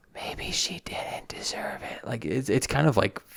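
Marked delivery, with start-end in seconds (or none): 0.2-2.1 hushed, breathy, barely voiced whisper. Retelling a show scene where Ellie relays what happened: imitating Ellie whispering.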